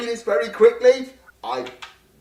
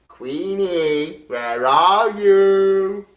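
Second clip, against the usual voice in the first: slow, drawn-out monster call; creepy reaper voice; 2 semitones lower, 3 dB louder, much slower than usual. Acted. Grim Reaper calling out searching.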